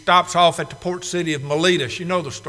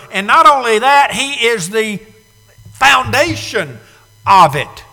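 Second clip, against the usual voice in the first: preaching at full force; 6 dB louder than usual. Real, not acted. Preaching climax.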